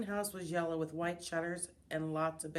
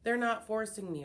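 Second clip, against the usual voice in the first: defensive, louder protest; arguing; 4 semitones higher, 4 dB louder than usual. Acted. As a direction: push back firmly. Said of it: "argued Missus Brisbane".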